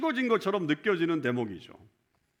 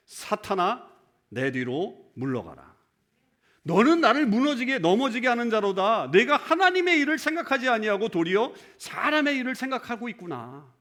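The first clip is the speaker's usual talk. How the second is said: stern rebuke; 4 semitones higher than usual. Retold or imitated. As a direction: scold Peter with a preacher's sternness. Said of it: "이렇게 야단치셨단 말이에요".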